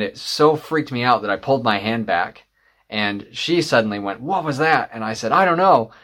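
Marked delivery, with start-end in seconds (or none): 4.2-4.9 mildly startled, pitch lifted; startled question. Retold or imitated. Workmate reacting as her knee suddenly shifts, mildly startled. 5.3-5.9 higher, louder retold bewilderment; bewildered reply. Speaker answering workmate after the knee shift, retold bewilderment.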